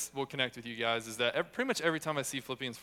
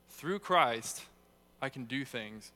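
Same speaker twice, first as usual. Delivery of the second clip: emphatic then calm; punch "Through Christ"; much slower than usual. Shown as a demonstration. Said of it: "Or say it".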